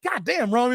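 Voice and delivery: "God damn" said high with emphasis; emphatic mock dismay. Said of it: "I put the emphasis".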